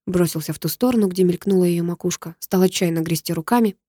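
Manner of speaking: ordinary delivery, nothing marked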